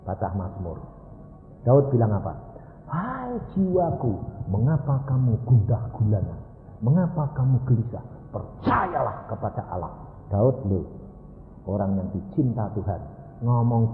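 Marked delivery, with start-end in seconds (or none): 2.9-9.9 soft self-exhortation. Acted. Acting Daud talking to his soul.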